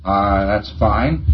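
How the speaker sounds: indulgent shrug. Retold or imitated. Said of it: "has sort of this attitude".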